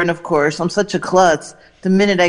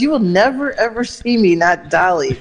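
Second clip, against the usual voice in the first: imitating Dolly; 4 semitones higher than usual. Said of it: "She goes".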